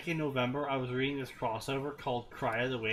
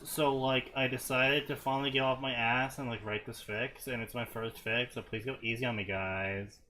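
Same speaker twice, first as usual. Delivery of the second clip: put-on Valley Girl; 3 semitones lower than usual. Asking readers to go easy on first fic, mock Valley Girl. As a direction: read it like a mild Valley Girl, easing off. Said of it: "reading it in Valley".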